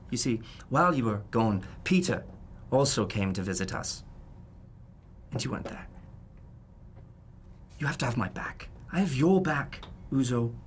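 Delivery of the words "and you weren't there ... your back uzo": hushed, voiceless, earnest; pleading under the breath; whispered plea. Acted. To Uzo about loyalty, a whispered plea.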